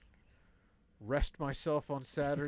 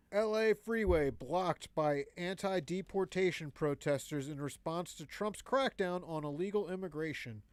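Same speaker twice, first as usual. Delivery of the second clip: even mock newscast delivery; joke news read; 5 semitones higher than usual. Reading a governor headline to the co-host, straight mock news read.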